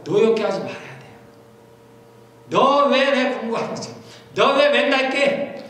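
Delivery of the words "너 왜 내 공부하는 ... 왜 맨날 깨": annoyed parent. Acted. Parent scolding child, acted quote.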